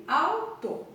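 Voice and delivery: olfato and último stretched out slowly syllable by syllable; teacher reading example words aloud to pupils; slow syllabified reading. Shown as a demonstration. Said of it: "Aqui eu tenho".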